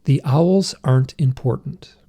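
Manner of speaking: measured, deliberate retold statement; unhesitating pronouncement. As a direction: state it slowly and with full certainty. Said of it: "without skipping a beat".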